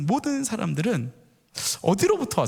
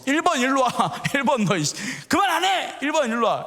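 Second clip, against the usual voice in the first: higher-pitched, mock cross parent; acted angry scolding; 5 semitones higher than usual. Parent summoning the eldest son after a squabble, acted scolding. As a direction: call the troublemaker over with exasperation.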